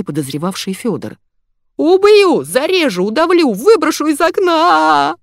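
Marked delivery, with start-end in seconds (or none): 1.8-5.2 much higher, louder, slow furious yell; raging threats. A narrator's reading. Zaya rushes off screaming murder threats.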